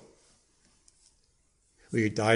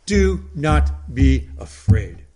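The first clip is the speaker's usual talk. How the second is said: slow, louder, every word of "Do not be afraid" weighed; firm reassurance; 5 dB louder, much slower than usual. Shown as a demonstration. Preacher giving Jesus' words to the disciples, slow and firm. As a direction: lay down Jesus' command slowly and firmly. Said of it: "did Jesus not say to his disciples".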